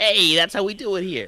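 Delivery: put-on New York accent. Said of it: "you put on the New Yorker accent".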